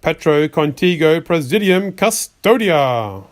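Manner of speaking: a slow, firm, loudly cast incantation; loud solemn spell; loud spell reading. Acted. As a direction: proclaim the protection spell out loud, slowly. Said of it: "Read this one loudly".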